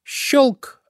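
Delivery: high, sudden snap of metal; sharp click. A narrator's reading. Trap springs open, imitated click. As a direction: say it like a catch springing. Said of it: "Раздался металлический звук".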